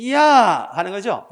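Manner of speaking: 야 drawn out slowly, 이 gliding into 아; slow, loud classroom demo of 야. Shown as a demonstration. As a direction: stretch 야 slowly so the glide is heard. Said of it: "이에서 시작해서 아로 끝나는 것이 야야".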